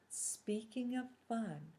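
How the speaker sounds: slow conspiratorial whisper. Acted. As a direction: lean in and whisper it slowly. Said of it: "He sidled up to Harvey and whispered".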